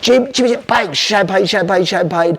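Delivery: high, lively calling of names; excited greeting. Retold or imitated. Club manager greeting Jimmy with champagne, excited and high. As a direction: greet him like a VIP.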